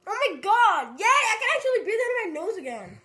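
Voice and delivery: high laughing relief. Real, not acted. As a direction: laugh it out happily.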